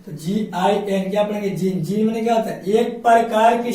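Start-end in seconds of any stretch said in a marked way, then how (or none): 1.5-1.8 जीन with G said as ज; soft G pronunciation. Shown as a demonstration. Teacher reading out G-I-N for students, जीन with a j sound. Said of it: "ज पढ़ेंगे".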